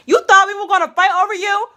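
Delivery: shrieking laugh at the end; mock him through laughter; laughing mockery. Real, not acted. To Zach, laughing at his expected drama.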